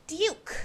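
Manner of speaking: Duke said "dyook", with a y-glide; posh British Duke, as "dyook"; I-U sound. Shown as a demonstration. Showing the British vowel in Duke, pronounced "dyook". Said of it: "the proper inclusion of an I U".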